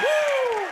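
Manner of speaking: high-pitched loud woo; high rocker whoop. Acted. Comic whooping after his punchline, high rock-star whoop. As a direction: let out a piercing "woo".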